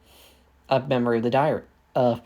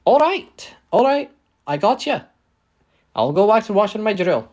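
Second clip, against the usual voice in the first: high, loud character voice giving in; put-upon crew member; 8 semitones higher, 5 dB louder than usual. Acted. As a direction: pitch it up high and concede loudly. British Hoxton answers Dallas's order.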